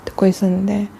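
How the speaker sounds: hushed whisper then a breathy sigh. Real, not acted. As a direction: whisper it as if still listening. Whispered aside while listening. (속삭이듯)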